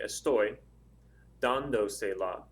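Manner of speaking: slow model reading. Shown as a demonstration. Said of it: "your new sentence is gonna be".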